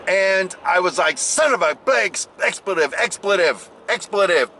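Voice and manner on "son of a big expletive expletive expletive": censored swearing, pitched up a little; playful re-enactment of a cursing fit; mock cursing. Man swearing after breaking his toe, mock cursing. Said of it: "like that".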